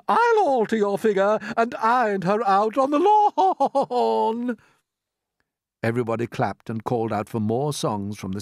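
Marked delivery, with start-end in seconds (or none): 0.1-4.6 high, slow mocking rhyme; character voice. Peach taunting in a slow high voice.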